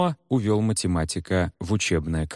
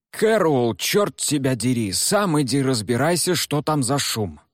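raised, annoyed shout; irritated call; 5 semitones higher than usual. Acted. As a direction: bark it down the corridor. Teacher calls out down corridor.

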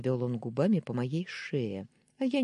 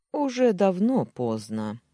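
slow, louder, tense retort; tense objection; 5 semitones higher, 6 dB louder than usual. A narrator's reading. Alisher refusing to let her go, tense slow retort. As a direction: press it out under strain. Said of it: "напряжённо возразил он".

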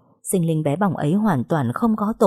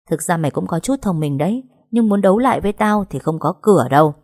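lightly voiced taunting older sister; menacing villainess. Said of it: "khẽ nói". (giọng chị Hạnh mỉa mai, đe dọa)

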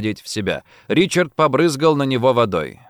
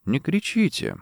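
calm; 5 semitones higher, 5 dB quieter than usual. A narrator's reading. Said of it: "спокойно сказал Саундерс".

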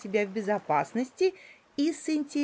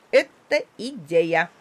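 slow, louder pleased exclamation; the parrot likes the boa's plan; 3 semitones lower, 6 dB louder, slower than usual. Acted. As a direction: seize on the idea with mild delight. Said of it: "обрадовался попугай".

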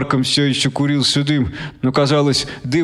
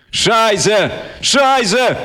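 sharp high yelled swear; yelled curse; 8 semitones higher, much slower than usual. Acted. Boy swearing in shock at the blaring speakers, yelling. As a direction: blurt it out as a shout. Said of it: "заорал я".

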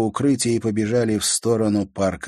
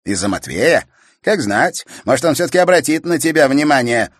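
louder jab; teasing; 7 semitones higher, 8 dB louder than usual. A narrator's reading. Brother teasing sister about Matvey. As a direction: needle her.

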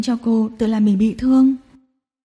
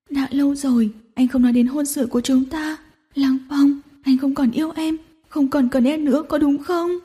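crying harder; 3 semitones higher than usual. Acted. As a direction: tearfully accuse him. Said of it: "khóc càng dữ dội". (khóc dữ dội trách móc)

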